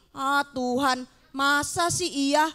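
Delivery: doubting Gideon. Acted. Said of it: "Dia malah bilang begini".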